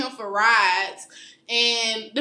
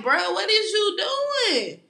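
exasperated shout; 8 semitones higher, much slower than usual. Retold or imitated. Exasperated retelling to boyfriend.

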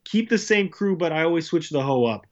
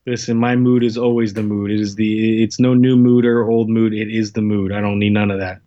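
loud insistence; 3 semitones lower, 8 dB louder than usual. Real, not acted. Insisting his mood needs no help.

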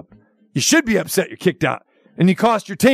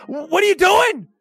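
coach scolding; 5 semitones higher than usual. Retold or imitated. Imitating the coach yelling at his player, hammed up. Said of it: "you saw Matt LaFleur go".

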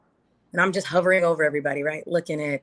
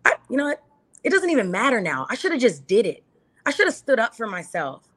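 higher, regretful rant to herself; frustrated teen self; 4 semitones higher than usual. Retold or imitated. Woman voicing her teen self's regret: higher, exasperated rant. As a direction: replay your high-school self, fed up and kicking yourself. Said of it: "you're like".

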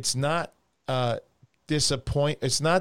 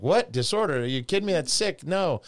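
mocking, scandalized higher voice; mock outrage; 4 semitones higher than usual. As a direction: play the shocked critic, scoffing. Mocking outraged modern critics.

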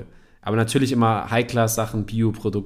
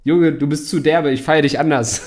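louder, laughing through it; laughing quote; 3 semitones higher, 4 dB louder than usual. Retold or imitated. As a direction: retell his reply laughing. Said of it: "seine Reaktion darauf". (lachend zitiert)

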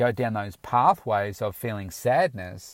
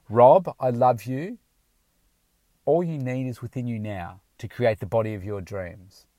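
enthusiastic affirmation; 3 dB louder than usual. Shown as a demonstration. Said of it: "say it with enthusiasm, passion, and emotion".

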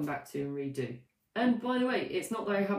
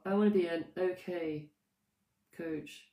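half-hearted. Shown as a demonstration. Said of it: "I'm so unconvincing".

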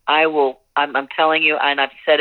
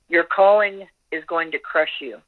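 reading aloud; 2 semitones higher than usual. Acted. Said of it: "I'm gonna read you something".

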